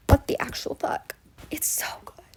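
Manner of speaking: whispered disbelief; stunned whisper. Real, not acted. Fan whispering shock at the track change. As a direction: breathe it out, floored.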